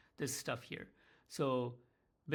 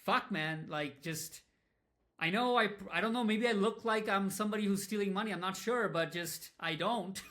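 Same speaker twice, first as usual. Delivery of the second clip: louder, exasperated reply to a client; half-laughing indignant protest; louder, frustrated "I don't steal"; 4 semitones higher, 5 dB louder than usual. Retold or imitated. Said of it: "I'm like".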